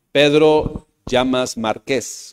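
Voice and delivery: Márquez said slowly, stressed on the final E. Shown as a demonstration. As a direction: give Márquez its accent on the last E. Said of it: "con acento en la E". (acento en la última E de Márquez)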